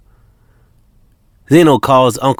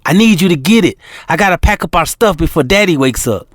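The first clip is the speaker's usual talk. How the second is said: still excited; 6 semitones higher than usual. Acted. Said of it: "China is still excited".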